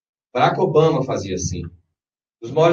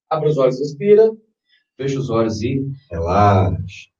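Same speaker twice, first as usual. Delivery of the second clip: right in your ear; 2 semitones lower than usual. Shown as a demonstration. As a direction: guide each breath gently. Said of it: "leads breathing exercise".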